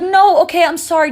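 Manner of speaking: high, loud, hurried protest; panicked backtracking. Retold or imitated. Mother rushes to save her baby, panicked. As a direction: blurt it out in mock panic.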